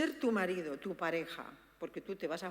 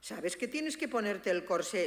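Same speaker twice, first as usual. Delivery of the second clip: neutral tone. Shown as a demonstration. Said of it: "no se lo dice".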